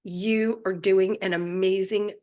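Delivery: gentle, slow wonder at your own body; tender praise. Pretend. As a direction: speak to your body like a proud friend. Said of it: "when you truly say to your body".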